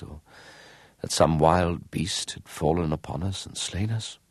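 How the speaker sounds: soft, lightly voiced lament; a hint of a weary poor man; sad woodcutter.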